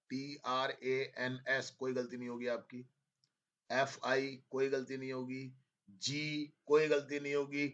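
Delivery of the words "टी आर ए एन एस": each letter spelled out slowly; slow spelling dictation. Shown as a demonstration. Teacher spelling a word slowly for students to check. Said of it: "ट्रांसफिगर्ड लिख लोगे आप".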